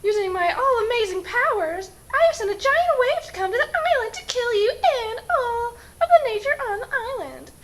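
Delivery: booming, hammed-up genie. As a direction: play a grand theatrical genie. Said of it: "I am the genie of the lamp".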